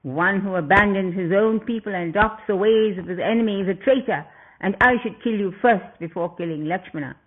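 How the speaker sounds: furious demon prince snarling; snarled. Acted. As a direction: spit out each accusation at the traitor. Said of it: "and snarled".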